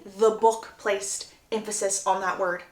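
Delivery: normal talking voice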